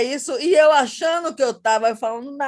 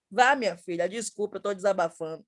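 much softer, lower apology; sheepish apology; 4 semitones lower, 6 dB quieter than usual. Real, not acted. Guest apologizing to host for venting, much softer. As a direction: drop the voice, embarrassed.

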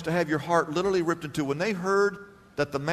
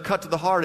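heart leaned on; stress on heart; faster than usual. Shown as a demonstration. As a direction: set off the phrase. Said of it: "instead of".

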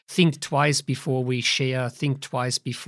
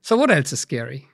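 spooky voice. Pretend. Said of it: "Are we gonna do this voice".

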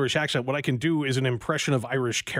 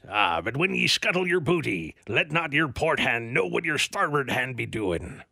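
Irish-sounding pirate accent. Shown as a demonstration. Host reading from the Pirate Bible, Irish-sounding pirate accent. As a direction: read it as a pirate with an Irish lilt. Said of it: "sounds like you're doing an Irish accent".

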